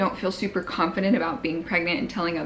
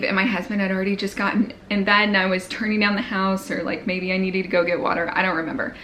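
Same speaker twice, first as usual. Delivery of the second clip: out of breath; faster than usual. Real, not acted. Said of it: "I'm, like, out of breath right now".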